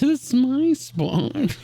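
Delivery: laughing slowly through it; drawn-out giggly pout. Acted.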